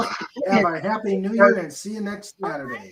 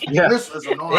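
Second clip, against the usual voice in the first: lightly put-on Australian accent; Crocodile Dundee. Host echoes the film line, mock Australian. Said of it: "Crocodile Dundee".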